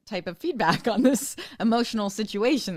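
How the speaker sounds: a light, high imitation of a ten-year-old defending himself; high voiced kid. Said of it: "have somebody point blank say to you".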